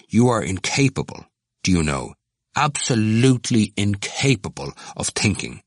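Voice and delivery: measured, urbane condescension; urbane put-down. A narrator's reading. Cranley answering Temple's challenge, urbane. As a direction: dismiss him with cool courtesy. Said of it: "said Cranley urbanely".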